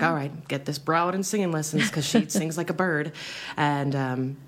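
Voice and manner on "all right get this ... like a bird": parents quoted. Retold or imitated. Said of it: "they were just like".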